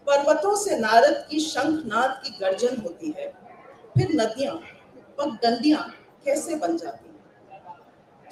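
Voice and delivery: हिंदी कविता पाठ; Hindi poem recitation. Acted. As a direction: recite it to a hall of fellow poets.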